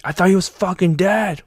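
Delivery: can't believe he's alive; shocked thought. Retold or imitated. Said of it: "and I'm thinking".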